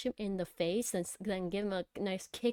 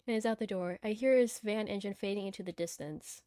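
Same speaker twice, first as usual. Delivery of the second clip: measured first-person story reading; story narration. Acted. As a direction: read the story out evenly. Reads the game's story aloud.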